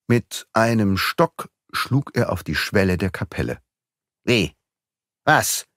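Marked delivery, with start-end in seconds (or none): 4.2-5.7 startled short questions, rising; the magistrate is baffled by the grave claim, calling out. A narrator's reading. Astonished exclamation. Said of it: "rief Filleul verblüfft".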